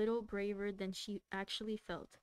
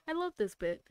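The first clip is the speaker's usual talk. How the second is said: much higher and louder, giggling with glee; gleeful cat; 6 semitones higher, 4 dB louder than usual. Acted. Reader redoes the cat's line, gleefully laughing. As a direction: relish it like a cat toying with prey. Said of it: "said the cat happily".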